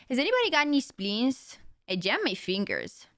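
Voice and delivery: game voice line in a Brazilian accent, starting high; Reyes. Shown as a demonstration. Streamer quoting a character's voice line, Brazilian accent. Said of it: "what's her voice line".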